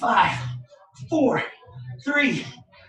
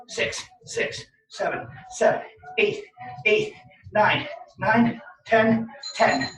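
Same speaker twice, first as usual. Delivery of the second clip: counting while holding a plank; straining through plank taps; slower than usual. Real, not acted. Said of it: "I'm just gonna hold the plank".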